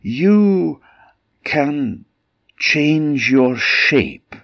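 high, slow, teasing tone; sly cat voice. A narrator's reading. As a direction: lead the ogre on slyly. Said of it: "said Puss".

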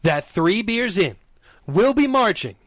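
slow, deliberate announcer delivery; drawn-out ceremonial reveal; grand announcement. Real, not acted. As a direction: announce it proudly, spacing out each phrase. Formal big announcement to the audience.

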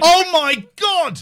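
loud laughing shock. Real, not acted. Reacting to naked friend on camera.

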